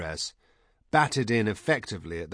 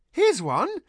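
very high, loud announcement; high-pitched, excited yell; triumphant shout; 7 dB louder than usual. A narrator's reading. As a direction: shout it out high as you find it. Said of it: "she shouted".

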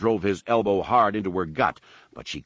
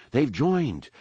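pitched-up, lightly raised call; 6 semitones higher than usual. A narrator's reading. Anakin to his mother and father, calling down. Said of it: "he called down".

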